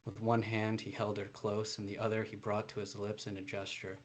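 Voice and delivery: steady, even reading of a novel passage; story narration. A narrator's reading. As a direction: read the scene out like an author at a launch. Author reads novel passage aloud.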